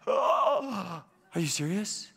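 thrilled disbelief. Retold or imitated. Worker offered a spiritual reading, reacting in mock thrilled disbelief. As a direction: imitate someone amazed at sudden good luck. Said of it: "like she won the lottery".

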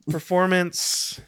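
drawn-out theatrical word; slow, stagey delivery; hammy stage actor. Pretend. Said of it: "I wanna feign a performance".

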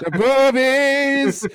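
very slow, high and loud; drawn-out punchline. Pretend. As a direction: stretch it out as a big punchline. Comic musical punchline.

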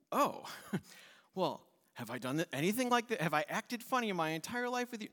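hint of a hurt donkey asking why; talking donkey. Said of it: "Donkey says".

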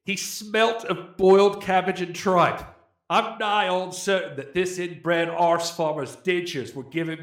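hammed-up British accent drifting toward Australian. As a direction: read the rant like a cheeky British bloke. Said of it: "read it like I'm British".

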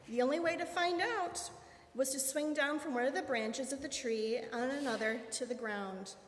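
ordinary delivery

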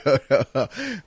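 rapid-fire shouted objection, pitched high; loud protesting. Real, not acted. Host cutting off co-host's James Ellsworth announcement, loudly protesting. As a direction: shout them down, high and insistent.

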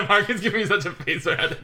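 giggling through the words; chuckling while speaking; laughing. Real, not acted. Laughing at friend's face.

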